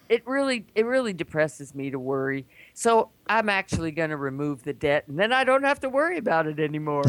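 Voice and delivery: lightly voiced Southern self-pity; Southern accent. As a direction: explain yourself in a put-on Southern accent. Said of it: "It's got a Southern accent".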